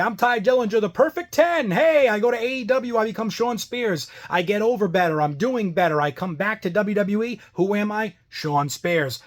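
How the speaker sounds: lightly mocking a wrestler's boastful intro; mock wrestler promo. Vlogger mocking Tye Dillinger's career, mock promo voice. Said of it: "Tye Dillinger in W W E".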